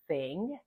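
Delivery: thing with a slow airy th; exaggerated th practice. Shown as a demonstration. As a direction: stretch the unvoiced th in thing. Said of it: "Listen again as I say".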